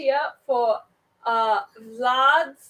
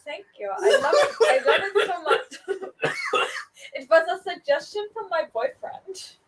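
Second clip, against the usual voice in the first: vampire boss; 4 semitones higher than usual. Acted. Vampire boss in improv scene.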